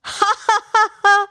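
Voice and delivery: high staccato ha-ha-ha cackle; loud, high acted laugh at fooled victims; gleeful laugh. A narrator's reading. Prankster boy laughing at villagers who ran to help, gleeful cackle. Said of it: "laughed Tanya".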